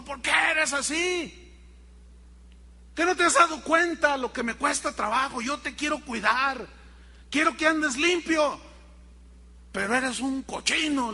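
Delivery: exasperated lecture. Retold or imitated. José lecturing the piglet.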